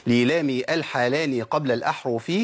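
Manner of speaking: slow, measured recital of a teaching poem; verse recitation. Shown as a demonstration. Teacher quotes the imam's verse, slow measured recitation. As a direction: recite the metre syllable by syllable, slowly.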